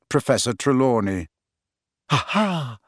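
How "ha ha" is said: triumphant cry. A narrator's reading. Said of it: "she cried".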